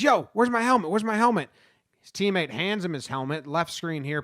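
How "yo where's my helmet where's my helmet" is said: calling out. Retold or imitated. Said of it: "He says".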